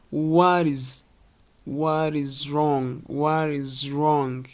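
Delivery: "What is" linked by a tapped T; slowly flow "What is wrong" with a soft D. Shown as a demonstration. Teacher demonstrating just like this, soft D in "What is". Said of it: "just like this".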